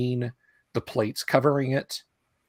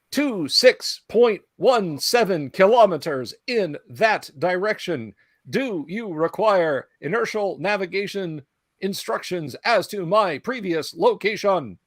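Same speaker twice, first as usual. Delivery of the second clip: hollow, high metallic robot voice; metallic voice filter; 7 semitones higher, 3 dB louder than usual. Acted. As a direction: speak like a hollow-sounding machine. Robot answers party.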